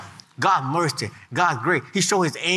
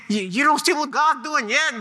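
frustrated Moses; 8 semitones higher than usual. Acted. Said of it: "he's saying".

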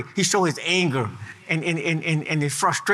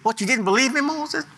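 God rebuking; 5 semitones higher than usual. Acted. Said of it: "God look at that, at unbelief".

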